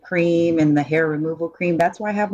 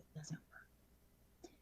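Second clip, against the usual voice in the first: slowly mouthed words; mouthed aside; 36 dB quieter, much slower than usual. Real, not acted. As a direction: silently mouth it. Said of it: "did you just mouth that".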